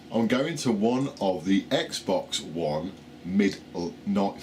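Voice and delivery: slow and slurring the words; slow and slurred, teeth slipping; loose dentures. Real, not acted. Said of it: "put my teeth back in".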